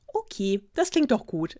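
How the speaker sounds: relieved. Acted. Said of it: "erwiderte das Schneewittchen erleichtert".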